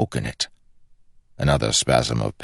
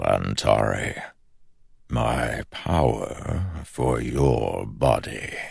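dark whisper behind you; slower than usual. Acted. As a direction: tempt him slowly, like a shadow. The shadow speaks.

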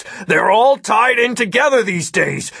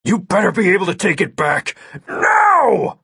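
high, forceful order building to a shout; angry demand; 8 semitones higher, 5 dB louder than usual. A narrator's reading. Red-faced agent orders hacker to undo it, angry shout. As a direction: build to a loud, high shout on the last word.

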